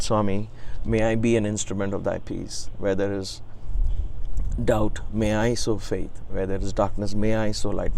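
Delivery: understated reverent petition; humble, sincere prayer. Retold or imitated. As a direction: offer the prayer humbly, from the heart. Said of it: "With all humility and sincerity from my heart".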